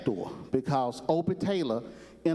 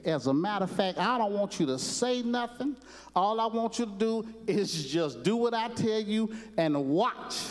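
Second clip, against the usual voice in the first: Sergeant Carter's warning; 5 semitones higher than usual. Retold or imitated. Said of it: "tells Gomer Pyle".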